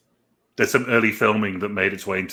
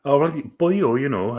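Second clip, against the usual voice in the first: hesitant stab at a Welsh accent; attempted Welsh accent; 4 semitones higher than usual. Shown as a demonstration. Asked how Welsh sounds, tentative Welsh accent. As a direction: reluctantly try out a Welsh lilt. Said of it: "I can't do a Welsh accent".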